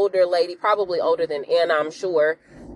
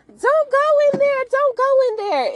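very high, dramatised scream; hammed-up panicked shriek; retold screaming; 4 dB louder than usual. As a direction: scream it like a frantic warning. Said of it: "Anna starts screaming that".

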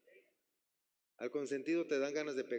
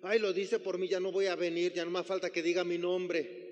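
ofendido; 3 dB louder than usual. Retold or imitated. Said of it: "Se enojan".

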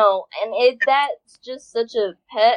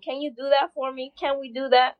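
higher, softer coaxing questions; pointed coaxing plea; 4 semitones higher, 4 dB quieter than usual. Acted. Podcaster pleads with artists to make an album, coaxing. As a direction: coax them softly, voice lifted.

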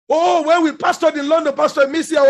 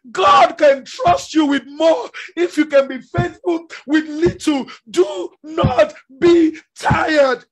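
slow, crying preacher; preaching at full force, voice crying; tearful full-force preaching; slower than usual. Acted. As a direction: plead with the congregation through tears. Preaches the climax with tears.

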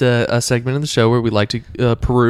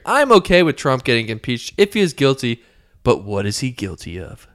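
reading as poster; 2 semitones higher than usual. Retold or imitated. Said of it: "This is out of, uh, Dallas-Fort Worth".

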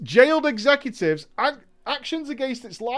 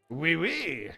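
mock French; 3 semitones lower, 6 dB quieter than usual. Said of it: "Do I have to do a French accent?".

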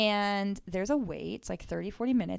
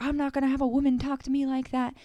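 higher, fast mock angry yell; retold yell; 5 semitones higher, 3 dB louder, faster than usual. Drunk man at the table, mock angry yelling.

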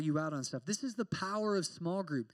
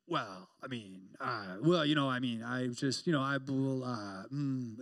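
put-on mumbling evasive kid; 6 semitones lower than usual. Pastor imitates evasive church kid, mumbling. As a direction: stall and fumble for words. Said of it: "He's like".

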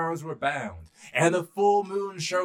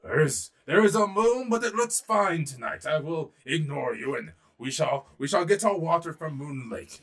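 elephant king; 3 dB louder than usual. Acted. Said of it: "the king of the elephants said".

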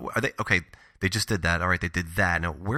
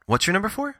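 shouting; 12 semitones higher than usual. Pretend. Pretends he can't hear.

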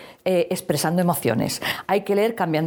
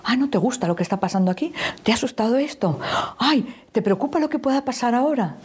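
empathetic parent; 6 semitones higher than usual. Shown as a demonstration. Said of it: "reacción un poco extraña".

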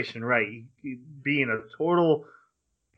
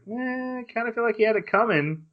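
dismissive shrug; 10 semitones higher than usual. Retold or imitated. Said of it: "everyone else is like".

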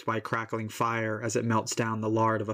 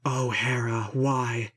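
pleading river god. Acted. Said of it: "pouring out his heart in a flood of supplication".

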